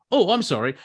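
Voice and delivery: mock apologetic MC. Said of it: "And he's gone".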